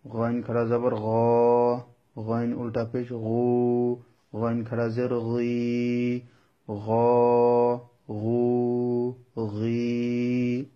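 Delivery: heavy Arabic ghain in গ, গু, গি; slightly thick ghain. Shown as a demonstration. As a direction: say গ, গু, গি a little thickly, vowels held long. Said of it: "একটু মোটা করে উচ্চারণ".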